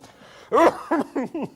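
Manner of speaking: a high, loud burst of laughter. Real, not acted. Cook announcing the next dish, laughing loud and high. Laughing presenting sweet stuff.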